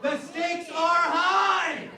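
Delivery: slow, loud mock-grave announcement; mock dramatic. Host hyping a candy prize, mock grave and slow. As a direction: drag it out like the stakes are huge.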